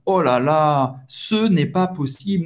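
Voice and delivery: exasperated fan, demonstrated; lamenting a missed goal; frustrated. Shown as a demonstration. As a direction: protest in mild disbelief. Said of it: "expressar uma frustração".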